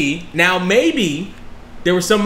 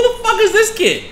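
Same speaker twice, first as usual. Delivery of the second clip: high, laughing mock Irish accent; impersonating Conor McGregor's Irish brogue mid-story; 12 semitones higher than usual. Podcast host mocking a rookie as Conor McGregor, laughing Irish accent. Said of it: "I was doing Conor McGregor".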